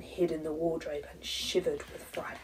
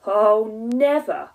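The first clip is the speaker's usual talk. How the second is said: slow emphatic ending; 9 dB louder, slower than usual. A narrator's reading. Final line of the story.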